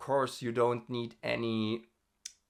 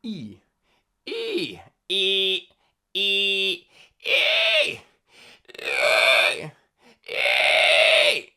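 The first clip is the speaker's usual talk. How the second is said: loud vowel drill; 11 semitones higher, 8 dB louder, much slower than usual. Shown as a demonstration. Vocal exercise vowels.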